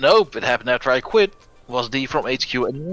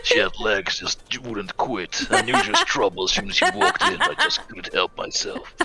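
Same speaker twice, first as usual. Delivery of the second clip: noir detective. Pretend. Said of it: "the inner noir monologue".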